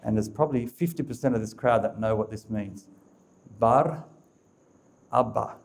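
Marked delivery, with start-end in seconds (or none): 3.6-5.5 Bar, a pause, then Abba; slowly split. Shown as a demonstration. Preacher spelling out the name for the crowd, slowly. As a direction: lay Bar and Abba apart so each part is heard. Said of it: "the word slowly".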